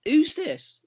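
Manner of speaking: high-pitched, puzzled "who's this?"; retold puzzled question. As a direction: ask it high, as if baffled by the caller. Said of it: "and I was like".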